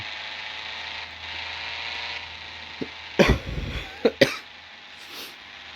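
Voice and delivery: long rough coughing fit; chesty cough. Real, not acted. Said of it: "Sorry, I'm coughing a lot".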